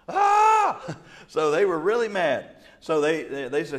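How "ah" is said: high, loud laughing squawk of exasperation; comic outraged yelp; frustrated cry. Retold or imitated. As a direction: let out a shrill mock howl. Pharisees' outburst of frustration.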